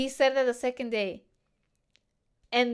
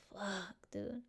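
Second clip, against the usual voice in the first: muttered curse; 2 semitones lower, 15 dB quieter than usual. Retold or imitated. Quoting her reaction on seeing him.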